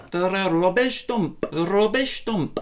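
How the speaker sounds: slow, exaggerated British accent; British accent practice. Shown as a demonstration. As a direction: lean into British RUBBISH, slowly. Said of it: "practice my British accent".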